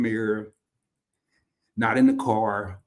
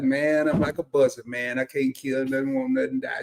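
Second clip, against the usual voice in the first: down-home Southern mumble; mumbled Southern talk. Retold or imitated. Telling Andrew how he's doing, mumbled Southern accent. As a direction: run it together in a Southern accent. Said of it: "I'm mumbling it".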